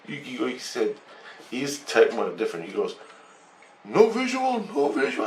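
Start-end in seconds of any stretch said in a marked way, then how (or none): 3.8-5.2 alien voice. Retold or imitated. Alien repeating the phrase.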